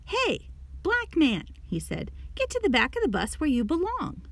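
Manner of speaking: lightly voiced rude driver ordering him back; yelling bus driver. A narrator's reading. Bus driver ordering Jackie to the back, mild mock yell. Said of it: "the bus driver yelled at him".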